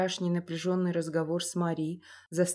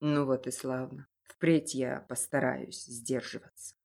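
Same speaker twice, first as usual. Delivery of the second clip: tender father; 6 semitones lower than usual. A narrator's reading. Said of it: "ласково гладя сына".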